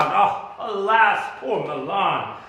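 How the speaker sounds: pained high lament. Acted. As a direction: mourn the dukedom aloud. Lament for fallen Milan.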